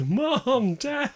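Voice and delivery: high mock cry for parents; distressed bunny calling. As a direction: call out high, as a hammed-up little bunny. Bunny spots parents through binoculars.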